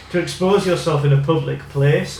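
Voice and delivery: reading an article aloud; news reading. Acted. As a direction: read it out like a news piece.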